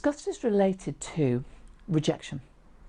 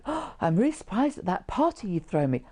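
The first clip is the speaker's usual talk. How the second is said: fake surprise; 5 semitones higher than usual. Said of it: "So if somebody says".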